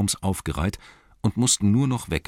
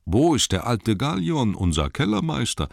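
elf calling out; 7 semitones higher, 3 dB louder than usual. Acted. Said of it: "sagte einer".

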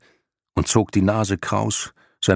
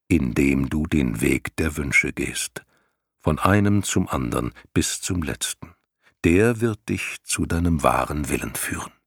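grave lion voice; 3 semitones lower than usual. Acted. Lion explains the path.

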